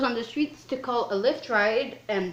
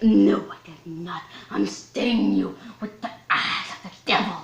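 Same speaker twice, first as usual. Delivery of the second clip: acted denial; 4 dB louder than usual. Acting out her angry denial.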